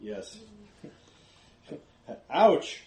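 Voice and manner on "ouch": orc grunting in pain; a laughing orc yelp of pain; guttural rough orc roar. Acted.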